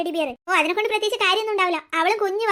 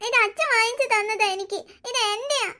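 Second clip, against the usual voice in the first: put-on tearful child; 2 semitones higher than usual. Boy loses teddy, starts crying.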